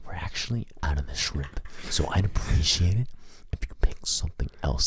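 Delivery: soft, hushed mock-polite whisper; whisper in the ear. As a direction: whisper it discreetly into someone's ear. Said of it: "Whisper in his ear".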